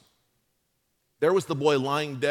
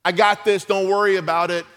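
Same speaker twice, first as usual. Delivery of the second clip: slow, firm and a bit louder; resolute; 4 dB louder than usual. Retold or imitated. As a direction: calmly shut down the worry. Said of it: "listen to the resolve in this woman's heart".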